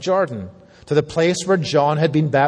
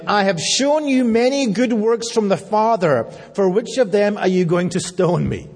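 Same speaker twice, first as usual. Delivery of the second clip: mildly sarcastic, higher-pitched quote; sarcasm; 4 semitones higher than usual. Acted. Jesus answering the men about to stone him, sarcastic. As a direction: needle them with mock innocence. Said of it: "That's sarcasm".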